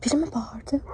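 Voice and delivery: hushed, scared whisper. Real, not acted. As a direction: whisper it so nobody hears. Scared in abandoned building.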